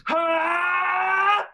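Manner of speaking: huge, high anime power-up yell; imitated battle shout. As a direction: scream like a Super Saiyan charging. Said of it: "So you'll just hear".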